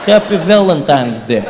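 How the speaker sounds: slow mock Russian, nice words made threatening; menacing Russian accent. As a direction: say sweet things like a threat. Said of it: "Sounds like a threat".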